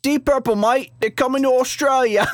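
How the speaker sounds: high, hammed-up Australian; bad Australian accent. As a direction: overdo a terrible Aussie accent. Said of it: "that's not a good Australian accent".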